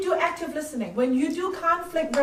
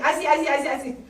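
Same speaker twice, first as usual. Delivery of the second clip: a hasty string of "I see, I see, I see" with a laugh; rushed, repeated "I see"; much faster than usual. Shown as a demonstration. Teacher showing the wrong way to listen, hasty repeated I see. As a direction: rattle off "I see" like you're cutting them off. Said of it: "don't keep saying".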